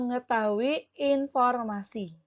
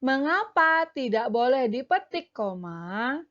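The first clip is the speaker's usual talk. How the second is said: Lani asking. Acted. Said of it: "Lani mengucapkan kalimat tanya".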